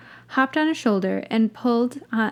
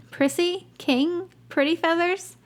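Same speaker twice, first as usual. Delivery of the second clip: calling out; 8 semitones higher than usual. A narrator's reading. Calling out names to owl.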